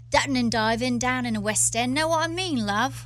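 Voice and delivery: demonstrating a Cockney accent. Shown as a demonstration. Showing the hosts what Cockney would be, Cockney accent. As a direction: put on a bit of East End Cockney. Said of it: "Cockney would be".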